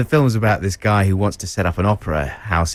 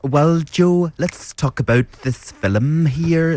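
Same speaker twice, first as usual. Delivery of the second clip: higher, slow critic's voice; Tom Paulin impression; 5 semitones higher, slower than usual. Co-host slips back into his Paulin voice. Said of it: "So there's Paulin".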